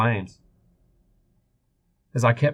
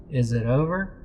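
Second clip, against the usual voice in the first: put-on trembling child; 6 semitones higher than usual. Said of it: "Johnny asked in a trembling voice".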